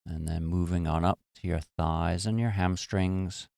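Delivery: unhurried meditation guide with long pauses; guided meditation. Real, not acted. Teacher leading listeners to relax their muscles, calm guided meditation. Leads a body-scan meditation.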